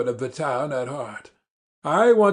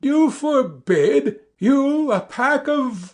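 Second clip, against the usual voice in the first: indignant outburst; 8 semitones higher, slower than usual. Acted. Doctor to his brother, outraged at being forbidden. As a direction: throw the word back at him in outrage.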